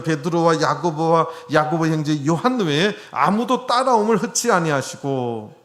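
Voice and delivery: loud, emphatic Bible reading; scripture read aloud. Acted. Preacher reading the verse to the congregation, loud scripture reading.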